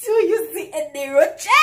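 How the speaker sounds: loud, rising indignant yell; outraged shout. Retold or imitated. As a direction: throw the question back at him hard. Repeats the outraged question.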